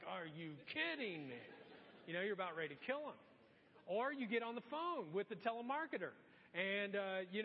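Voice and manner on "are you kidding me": lower, under-the-breath disbelief; low, weary mock exasperation; muttered disbelief. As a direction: grumble it to yourself in the line. Annoyed in grocery line.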